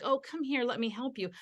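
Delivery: soft, sympathetic offer of help; comforting parent. Retold or imitated. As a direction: tend gently to a hurt child. Comforting a hurt child.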